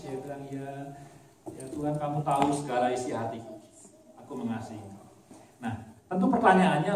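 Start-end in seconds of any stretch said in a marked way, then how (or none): 0.5-5.1 softer, mildly sad confession; a hint of Peter close to tears. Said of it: "ya sedih dia, mungkin mau nangis".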